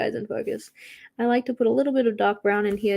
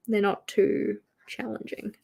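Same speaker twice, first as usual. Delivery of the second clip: whispered aside; 6 dB quieter than usual. Acted.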